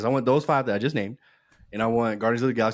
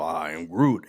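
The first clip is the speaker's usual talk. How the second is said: low-pitched Groot catchphrase; lightly voiced deep Groot; Groot impression; 6 semitones lower, slower than usual. Fan quoting Groot while casting a dream sequel, low impression. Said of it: "Give me Vin Diesel".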